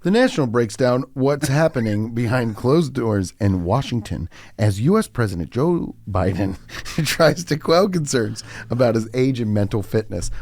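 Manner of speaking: put-on a light Reykjavik-flavoured accent reading the news. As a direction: read the headline with a faint Icelandic accent. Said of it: "talk like I'm from Reykjavik".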